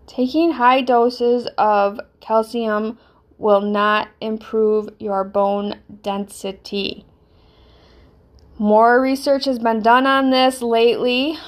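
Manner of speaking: slow, flat lecture monotone; science monotone voice. Pretend. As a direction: read it like a dry science paper. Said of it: "science monotone voice on".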